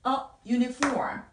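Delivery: "a uniform" with schwa "어" before a y sound; article demonstration. Shown as a demonstration. Teacher models a before uniform, careful demonstration. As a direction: say "a uniform" slowly as uh yoo-ni-form. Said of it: "하게 됩니다".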